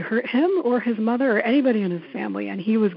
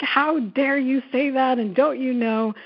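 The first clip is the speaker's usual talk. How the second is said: mock scolding; 5 semitones higher than usual. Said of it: "wave my big fat feminist finger at him".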